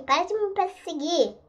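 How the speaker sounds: high shrieking panic; panicked screaming. Real, not acted. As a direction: scream at the monster. Chased by monster.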